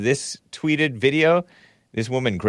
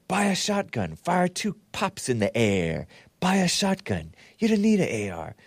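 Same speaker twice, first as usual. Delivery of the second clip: Sleazy Joe; 5 semitones higher, 6 dB quieter than usual. Retold or imitated. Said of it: "Here's Sleazy Joe, who said".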